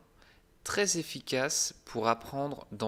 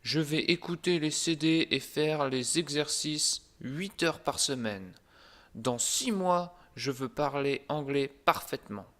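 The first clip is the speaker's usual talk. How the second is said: past self; 2 semitones higher than usual. Retold or imitated. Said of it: "Je disais".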